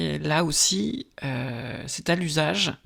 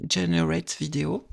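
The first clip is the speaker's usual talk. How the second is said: "Generate Video" said with a thick French accent; English words read the French way; accent français sur des mots anglais. Real, not acted. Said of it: "Admirez mon accent anglais".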